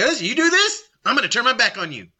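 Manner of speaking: threatening. Acted. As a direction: lay down a threat, then rush the consequence. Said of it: "That's a threat".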